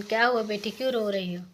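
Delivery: a loud, concerned calling out; the god calling loudly to the weeping bride. Acted. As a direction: call out to the crying girl, loud and caring.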